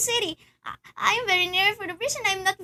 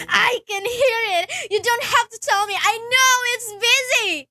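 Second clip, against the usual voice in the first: irritated snap; 3 semitones higher, 3 dB louder than usual. Acted. Snaps at operator over busy line.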